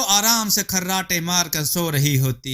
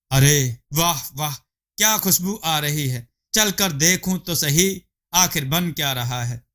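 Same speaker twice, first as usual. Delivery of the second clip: delighted wife. Acted. Gulabo wakes to food smell.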